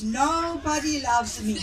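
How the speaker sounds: slow, drawn-out tipsy lament; playfully retold tearful complaint; mock self-pity. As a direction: imitate an uncle feeling sorry for himself. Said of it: "he's feeling sorry for himself".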